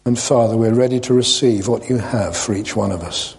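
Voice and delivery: unhurried, reverent prayer; sincere, measured praying aloud. Real, not acted. Leads a prayer.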